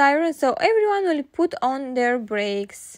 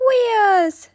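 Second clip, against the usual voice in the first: giggling; 7 semitones higher, 7 dB louder than usual. Acted.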